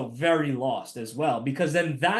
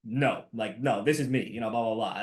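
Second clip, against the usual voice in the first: put-on lower, blunt Jersey accent; 7 semitones lower than usual. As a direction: lay on a New Jersey accent. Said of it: "in my Jersey accent".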